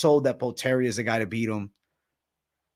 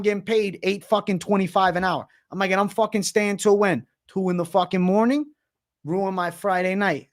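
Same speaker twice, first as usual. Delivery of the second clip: higher, indignant venting about the late shift; worked-up rant; 5 semitones higher than usual. Retold or imitated. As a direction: vent like you can't believe it, pitched up.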